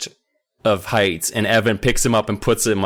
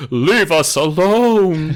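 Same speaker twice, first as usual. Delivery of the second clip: mock old child; 6 semitones higher, 5 dB louder, much slower than usual. Mocking the old-sounding child.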